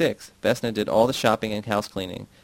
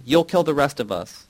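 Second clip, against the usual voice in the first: high, loud frantic cry; mother shrieks while hitting the girl, high and loud; 5 semitones higher, 5 dB louder than usual. A narrator's reading. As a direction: scream it in panic.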